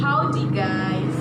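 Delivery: howdy guys, loud and slowly drawn out; Southern American greeting. Shown as a demonstration. Student demos the Southern greeting to class, loud and slow. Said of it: "we say".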